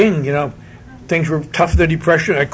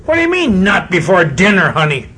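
put-on indignant kid. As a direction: protest like a spoiled brat. Spoiled boy argues.

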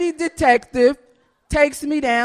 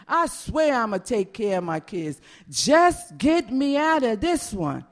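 retold prayer; 4 semitones lower, 3 dB quieter than usual. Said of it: "I would say a prayer".

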